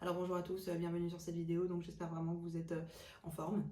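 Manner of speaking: low, flat monotone with no variation. Showing the worst enemy of a charismatic voice: a flat monotone. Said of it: "Le pire ennemi d'une voix charismatique, c'est la monotonie".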